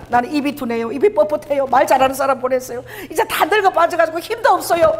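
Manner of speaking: lightly acted helpless protest, rising high; imitated self-doubting excuses. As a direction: make excuses as an unwilling, humbled Moses. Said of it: "너무 겸손해져가지고 이제 아무것도 못해요". (못하겠다고 변명하는 모세 흉내)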